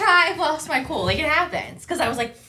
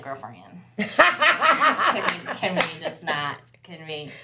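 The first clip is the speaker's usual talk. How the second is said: gentle pleading; 4 semitones lower, much slower than usual. Retold or imitated. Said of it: "And I'm like".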